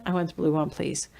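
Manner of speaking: put-on child whispering the polite request; whispered child reply. Child repeating politely in a whisper.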